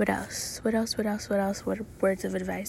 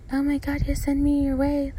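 excited; 5 semitones higher, 4 dB louder than usual. Real, not acted. Excited at the dream man.

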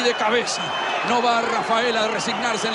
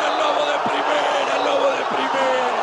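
breakneck goal commentary; 3 semitones higher than usual. Real, not acted. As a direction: yell the goal and chant it over and over. Team saved, endless goal celebration.

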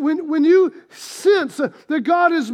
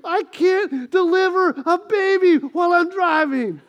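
incredulous panic; 4 semitones higher than usual. Retold or imitated. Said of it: "I'm like".

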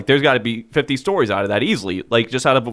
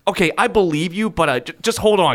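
receptionist voice; 5 semitones higher than usual. Retold or imitated. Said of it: "the lady on the other end is like".

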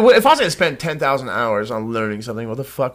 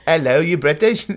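put-on hesitant, clumsy British accent; bad British accent. Retrying on request, clumsy British accent. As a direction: try a British accent half-heartedly. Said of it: "Do it again".

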